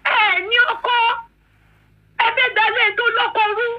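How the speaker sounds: crying while shouting at the commenters; tearful outburst. Real, not acted. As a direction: shout it through real tears. Wife upset by online comments.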